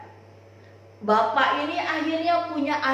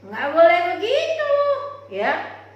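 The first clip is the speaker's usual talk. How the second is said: firm husband; 5 semitones higher, 5 dB louder than usual. Acted. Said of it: "bapaknya ngomong gini".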